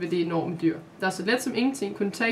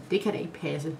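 wondering; 4 semitones lower than usual. Acted. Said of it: "sagde hun forundret".

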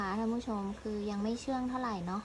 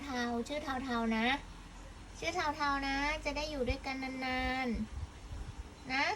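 tender; much slower than usual. Acted. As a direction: tell the cat gently, drawn out. Slow tender words to cat.

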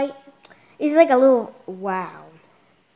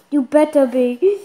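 insistent warning; 2 semitones higher, 8 dB louder than usual. Real, not acted. Child warning apologetic mom, loud insistent retort. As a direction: say it back forcefully, ending on a rise.

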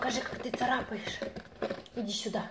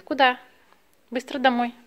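calling out; 3 semitones higher, 4 dB louder than usual. Real, not acted. Cat runs to the door.

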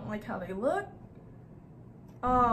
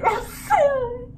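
high, loud laugh-cry sorry; laughing apology; 12 semitones higher, 8 dB louder, slower than usual. Real, not acted. Gamer laughing an apology to the monster. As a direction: giggle through the apology, slowly.

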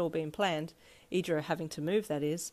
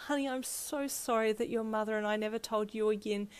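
guilty, near tears; 4 semitones higher than usual. Acted. Mum apologising to Ichiro, mildly tearful and guilty. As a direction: confess it as the tears come. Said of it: "She started sobbing".

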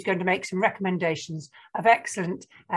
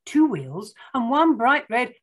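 picture-book narration; 3 semitones higher than usual. Acted. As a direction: read it to small children, spacing out the count.

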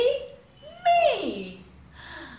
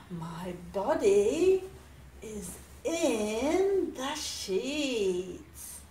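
sleepy sigh; 8 semitones lower, 6 dB quieter, slower than usual. Acted.

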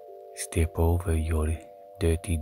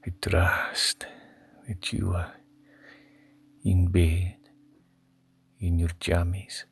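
whisper. Pretend. ASMR whisper.

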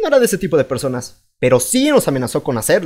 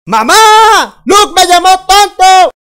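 very high, loud, slow whiny shout; tattling kid yell; 13 semitones higher, 12 dB louder, much slower than usual. Acted. Kid tattles to mom on his brother, loud high whine.

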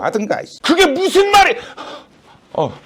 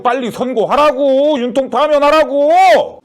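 slow, higher, drawn-out insistence; angry demand; 3 semitones higher, slower than usual. Acted. Pressing the judge to rule quickly, angry and insistent. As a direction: hammer out each demand, stretching the endings.

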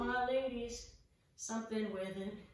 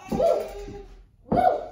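excited whoop; cheer; 9 semitones higher, 9 dB louder than usual. Real, not acted. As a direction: let out a happy whoop. Cheering mid-workout.

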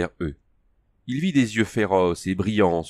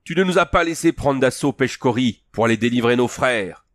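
ton accusateur; 4 semitones higher than usual. Acted. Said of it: "lui lança sur un ton accusateur".

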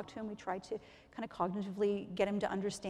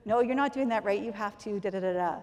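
patients correcting each other; 7 dB louder than usual. Retold or imitated. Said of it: "patients that are answering back".

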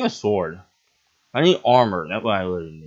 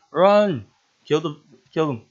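panicked yell, much higher and louder; 7 semitones higher, 6 dB louder than usual. Real, not acted. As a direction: shout to flee in alarm. Mob attack in game.

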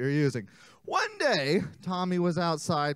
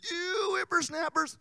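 put-on old grandpa voice; 13 semitones higher than usual. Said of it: "Old Man Jenkins".

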